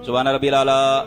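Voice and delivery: سبحان ربی الاعلیٰ clipped quickly, ع and الف blurred; hasty slurred tasbih; rushed wrong way. Shown as a demonstration. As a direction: say it fast like careless people. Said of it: "ایسے پڑھتے ہیں لوگ".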